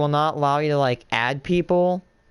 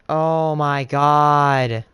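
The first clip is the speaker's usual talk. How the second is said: drawn-out oh my god, loud; slow disbelief; 5 dB louder, much slower than usual. Real, not acted. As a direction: stretch it out in disbelief. Game broke again.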